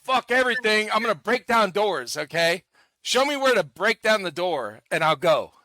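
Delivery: a touch of fired-up daredevil; gung-ho teammate. Acted. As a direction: play the eager guy ready to charge in. Voices a reckless door-breaking teammate.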